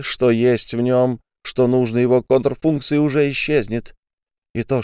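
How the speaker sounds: furious tirade. Acted. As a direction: lash out with every word. Olga's tirade continues.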